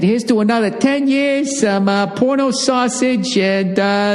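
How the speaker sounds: high, bright toast; cheerful sign-off. Real, not acted. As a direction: raise a toast to the fans. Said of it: "closing toast".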